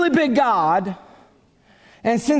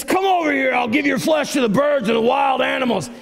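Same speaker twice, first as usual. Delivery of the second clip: ticked-off Goliath; 3 semitones higher than usual. Retold or imitated. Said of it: "he's saying this".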